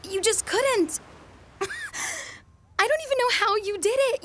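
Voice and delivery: amazed disbelief. Acted. Stunned by his surprise gift.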